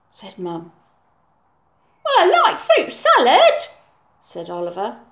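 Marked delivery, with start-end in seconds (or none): 2.0-3.7 high, loud, laughing; higher child with a giggle; cheeky boy. Acted. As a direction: wriggle out cheekily. Oliver's voice.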